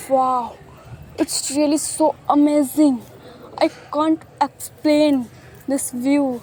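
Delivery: slow, drawn-out amazement; amazed wonder. Acted. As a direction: stretch every word in awe. A singer amazed by the decorated beach. (धीमी, खिंची हुई हैरानी)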